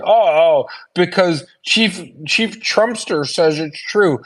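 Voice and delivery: slow, drawn-out mocking quote of the opponent; sarcastic mock. Mocking the opponent's source in a debate, slow and sarcastic. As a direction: sneer it out like a gullible fool. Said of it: "I'm supposed to look at that and say".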